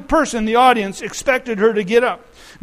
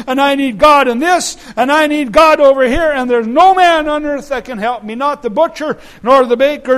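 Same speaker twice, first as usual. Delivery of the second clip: raised, insistent, mounting list of needs; urgent plea; 3 semitones higher, 4 dB louder than usual. Acted. Preacher voicing many others who need God, urgent plea. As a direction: plead it higher, piling up each need.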